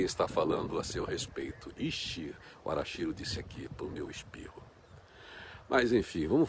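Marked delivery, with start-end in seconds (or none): 1.8-4.6 soft unvoiced whisper. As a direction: whisper it like a secret. Aside about someone talking of her.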